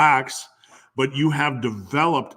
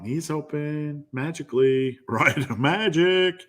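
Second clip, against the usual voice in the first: higher, playful sing-song; mock wonder; 3 semitones higher, slower than usual. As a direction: present it like a silly magic trick. Mock wonder at knees opening magically.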